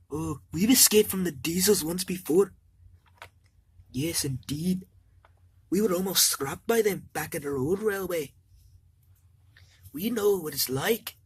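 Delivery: a hint of Scottish accent, proud of escaping. Donald and Douglas telling the engines they escaped, light Scottish accent.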